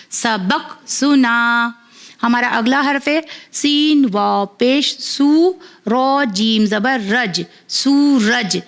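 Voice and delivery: slow, clear letter-by-letter spelling, then blending the word; patient teacher reading a primer aloud; phonics spelling drill. Acted. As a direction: spell each syllable out for a child, then join them.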